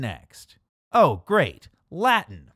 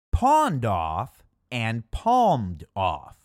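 slow contrast; 3 semitones lower, slower than usual. Shown as a demonstration. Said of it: "sleight of tongue between them".

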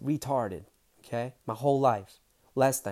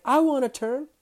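high, louder eager call; eager demand; 8 dB louder than usual. Retold or imitated. Dane asking Gary for a turn, eager. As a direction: ask for your turn like an excited kid.

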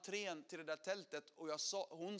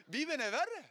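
excited emphasis; 8 semitones higher, 7 dB louder than usual. Real, not acted. Repeats punchline amused.

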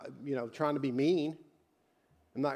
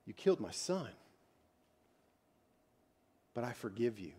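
soft, measured, pausing between sentences; gentle forgiveness; 2 semitones lower, 5 dB quieter than usual. Acted. President to his son's killer in prison, softly forgiving. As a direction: grant pardon quietly and sincerely.

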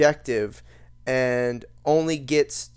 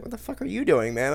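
mock gamer; 4 semitones higher than usual. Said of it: "they're gonna be like".

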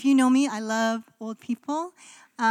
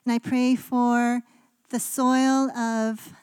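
prayer. Real, not acted. Pastor praying for listeners before the sermon, earnest prayer voice.

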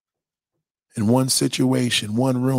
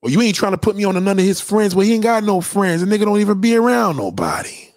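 put-on sassy girlfriend; 7 semitones higher, faster than usual. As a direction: snap back at your friend. Friend bickering, raised.

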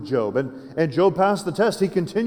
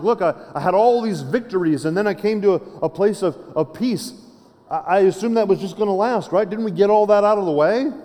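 higher-pitched mock protest; David freaking out; 4 semitones higher than usual. Psalmist questioning God after his victories, higher-pitched protest. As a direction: plead your case, pitch raised in disbelief. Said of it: "I kind of freaked out".

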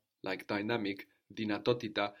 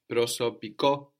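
"Prosopiko" with the accent on the last syllable KO; stress on ko; 4 dB louder than usual. Shown as a demonstration. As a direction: come up on KO in "Prosopiko". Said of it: "that's when we come up on the ko".

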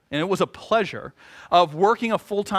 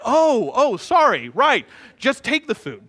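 mock cashier; 5 semitones higher, 3 dB louder, slower than usual. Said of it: "they're like".

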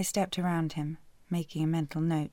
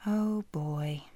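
whispered dread. Acted. Woman whispering to herself, dreading his voice. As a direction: whisper it under your breath.

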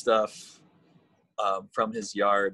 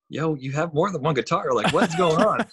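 exasperated; 7 semitones higher, 4 dB louder than usual. Retold or imitated. Retelling his own reply to Jordan.

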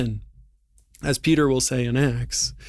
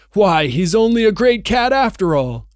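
mocking creature cry; 7 semitones higher, 7 dB louder than usual. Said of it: "cried one".

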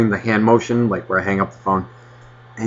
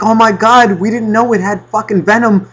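high, alarmed mock panic; a wife freaking out at the monster dog; panicked wife; 9 semitones higher, 3 dB louder than usual. Wife panicking over the venomous dog, high mock alarm. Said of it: "Queen Bee is sitting there fucking going like".

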